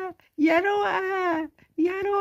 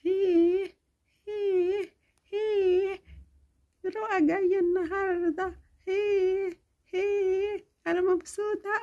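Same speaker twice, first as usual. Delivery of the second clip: put-on excited little girl; 3 semitones higher, slower than usual. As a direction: cheer like a delighted kid. Child cheers at news.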